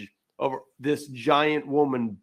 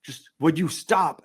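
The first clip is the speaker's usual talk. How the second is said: mildly pleading, halting apology. Acted. Giant woman asking onlookers to stop filming, mildly pleading. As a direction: act out an awkward plea, growing more insistent. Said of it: "pleading with people going".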